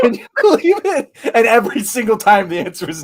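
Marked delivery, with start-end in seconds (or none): 0.0-1.1 much higher, mocking Trump catchphrase; imitating Trump. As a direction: toss it off like a scoffing Trump parody.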